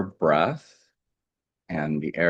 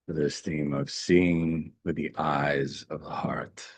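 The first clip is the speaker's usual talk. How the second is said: slow, half-whispered meditation line; hushed refrain; 4 dB quieter than usual. Real, not acted. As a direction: let the theme sink in, almost whispering. Meditation theme repeated as closing refrain.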